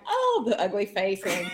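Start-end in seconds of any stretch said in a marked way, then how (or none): 0.1-0.4 high, loud, mock-overwhelmed gasp; overdone pageant-winner cry; beauty pageant winner. Candidate learning she won, hammed-up pageant moment. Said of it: "beauty pageant moment".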